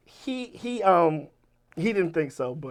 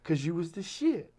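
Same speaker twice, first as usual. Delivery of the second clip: imitated matter-of-fact admission; understated, casual statement of fact; 2 semitones higher, 3 dB quieter than usual. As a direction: own up to it with no fuss. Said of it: "so matter-of-factly".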